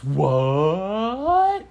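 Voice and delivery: loud, drawn-out rising "what"; hammed-up storybook amazement; astonished. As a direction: swoop upward in amazed disbelief. Girl learns flowers are chocolate.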